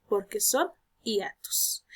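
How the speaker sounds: slow, breathy whisper; whispered answer. Real, not acted. Teacher to students, answering her own question in a slow whisper. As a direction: let the answer fall to a hush.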